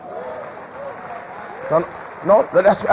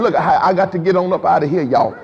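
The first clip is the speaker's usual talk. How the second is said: laughing getaway; 3 semitones lower than usual. Retold or imitated. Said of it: "you get yourself".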